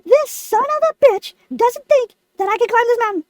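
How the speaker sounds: mildly indignant defiance; defiant. Retold or imitated. Lemon doubted by Carl about the climb, defiant. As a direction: retell it with affronted disbelief. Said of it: "out of pure defiance".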